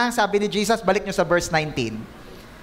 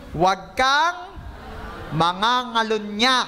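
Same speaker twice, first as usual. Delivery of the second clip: slow emphatic reading; 3 semitones higher, slower than usual. Shown as a demonstration. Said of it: "Ano sunod".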